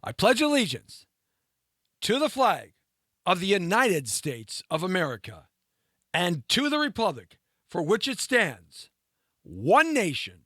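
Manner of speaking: measured, ceremonial recitation; pledge recitation. Acted. Host leading viewers in the Pledge of Allegiance, ceremonial.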